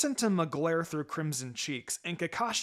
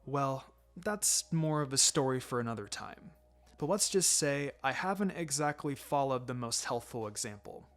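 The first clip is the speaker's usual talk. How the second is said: low, soft, a touch embarrassed; brushing it off quietly; Kakashi, sheepish sensei; 3 semitones lower, 4 dB quieter than usual. Acted.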